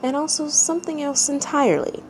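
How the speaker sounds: calm, even storytelling read; measured narrator voice reading a tale; story narration. A narrator's reading. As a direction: read it like a bedtime story to listeners. Reads a fanfic story aloud.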